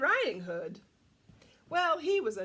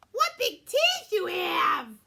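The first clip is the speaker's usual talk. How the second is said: alarmed cry; 6 semitones higher, 10 dB louder, slower than usual. A narrator's reading. Red Riding Hood questions wolf.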